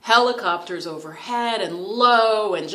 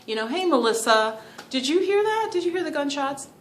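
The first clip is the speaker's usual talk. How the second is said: urgent question; 8 semitones higher, 3 dB louder than usual. Pretend. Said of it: "go up to somebody and, and say".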